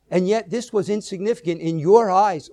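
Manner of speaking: YOUR picked out with emphasis; stress on YOUR. Shown as a demonstration. Preacher reading David's response to the congregation, stress on "your". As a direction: lean on the word "your". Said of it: "put emphasis on certain words".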